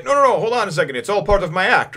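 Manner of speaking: pitched high and loud, hurried; mock pleading. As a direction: talk them down in a rush. Bon Clay pleading to the angry crew.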